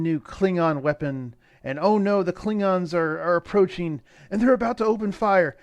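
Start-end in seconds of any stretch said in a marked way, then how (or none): 1.6-5.6 hammed-up suspense, rising to high pitch; mildly breathless storyteller's panic; mock alarm. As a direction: build the cliffhanger with playful urgency. Mock suspense retelling cliffhanger.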